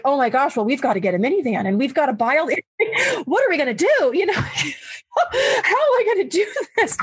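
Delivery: rising panic, half laughing; spilling out worried questions; panicky. Retold or imitated. Wife panicking over adopting two girls, laughing nervously. Panicked inner monologue quoted.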